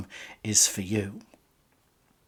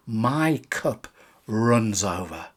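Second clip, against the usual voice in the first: slow quote; 3 dB quieter, slower than usual. Shown as a demonstration. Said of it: "remember David saying here".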